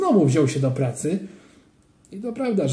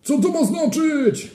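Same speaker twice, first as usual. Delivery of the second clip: high, loud stern adult's yell; angry shout; 13 semitones higher, 3 dB louder than usual. A narrator's reading. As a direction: bark it like an outraged supervisor. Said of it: "krzyknął". (gniewny okrzyk wychowawcy)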